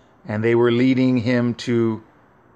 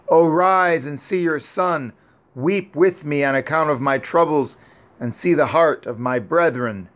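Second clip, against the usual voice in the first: crying aloud; 2 semitones higher than usual. Acted. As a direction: plead with a dead mother in understated sorrow. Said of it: "Yosef cried aloud".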